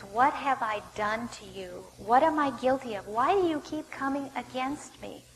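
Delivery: pleading his case in earnest questions. Acted. David tries to plead his case with Saul, pleading. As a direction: press each question as an appeal. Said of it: "He tries to plead his case again".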